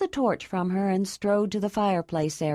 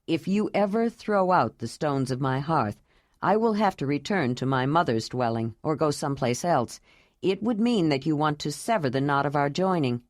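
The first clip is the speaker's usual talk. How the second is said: lightly lowered, grave man's voice; serious Jondalar; 4 semitones lower than usual. Acted.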